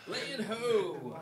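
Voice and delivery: sailor calling out land from the mast; shouting from crow's nest. Pretend. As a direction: cry it out like a lookout. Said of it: "comes back with a little fig leaf".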